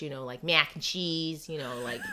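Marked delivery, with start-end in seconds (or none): 0.4-1.5 light Midwestern twang on the vowels; Midwestern accent. Shown as a demonstration. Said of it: "that Midwestern accent".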